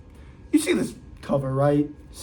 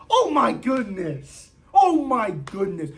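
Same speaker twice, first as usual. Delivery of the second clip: laughing exasperation; 4 semitones higher, slower than usual. Real, not acted.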